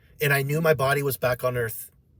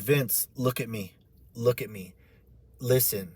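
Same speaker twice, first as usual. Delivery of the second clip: calming angel; 4 semitones lower, 5 dB quieter than usual. Retold or imitated. Angel calming the crying teller.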